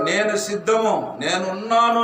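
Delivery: slow, earnest "నేను సిద్ధము"; prophet's eager answer. Retold or imitated. Pastor voicing the prophet answering God, earnest and slow. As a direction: answer the call with conviction. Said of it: "అని ఎస్ఐ ప్రవక్త చెప్తున్నాడు".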